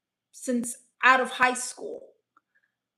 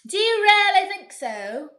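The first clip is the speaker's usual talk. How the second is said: high, louder mock delight; mock flattered; 8 semitones higher, 8 dB louder than usual. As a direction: gush like you're flattered.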